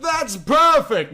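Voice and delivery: high, slowed delight; thrilled. Acted. Raichu delights in Yuki's revenge plan, high and slow. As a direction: savor the idea of revenge.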